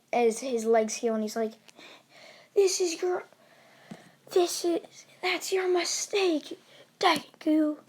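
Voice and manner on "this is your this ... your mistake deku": gloating villain. Acted. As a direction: draw out the taunt in a raised voice. Villain Dio taunts Deku.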